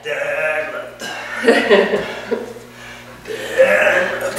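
whispered spooky chant; breathy ghostly whisper; spooky Halloween voice. Pretend. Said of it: "somebody has Halloween on the brain".

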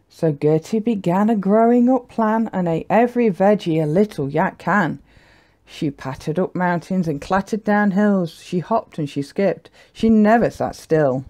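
measured, lilting picture-book reading; story narration. A narrator's reading. Narrator telling children about a little yak, lilting storytelling. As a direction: read the rhyme with bouncy emphasis.

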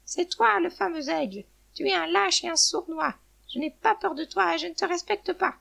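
high-pitched defiant tirade; loud, furious hen. A narrator's reading. Hen insults the eagle holding her, furious. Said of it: "la poule parlait d'une voix forte".

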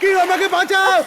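panicked cry for help. Acted. Falling into the well.

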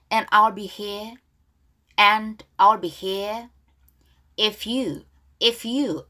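slow, careful repeat-after-me English; measured read-along for learners; pronunciation model. Shown as a demonstration. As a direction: say each phrase deliberately, then repeat it. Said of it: "발음 따라할게요".

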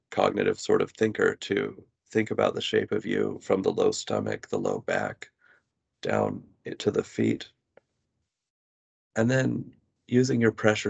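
measured meditation guidance with long pauses; guided body scan. Real, not acted. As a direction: guide the listener gently into body awareness, pausing between phrases. Leads a body scan exercise.

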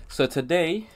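prim, well-spoken nerd voice. Real, not acted. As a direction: talk like a proper nerd. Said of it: "I'm talking like some nerd".

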